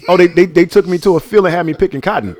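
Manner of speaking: a hint of a little kid; imitating kid self. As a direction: play it as a clueless kid. Kid self in hypothetical replay.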